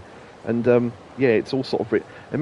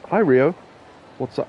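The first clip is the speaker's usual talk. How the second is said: high, louder put-on woman's voice; 5 semitones higher, 4 dB louder than usual. Greeting himself as the game girl, in a woman's voice. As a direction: chirp a hello as the girl. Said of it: "started doing the woman's voice".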